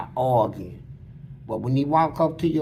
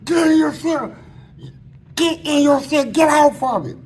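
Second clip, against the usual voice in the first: retold guard's holler, high and louder; hollered order; 8 semitones higher, 4 dB louder than usual. Guards at the door catch him in the act, hollering. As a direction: holler it like a guard breaking something up. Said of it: "They was hollering".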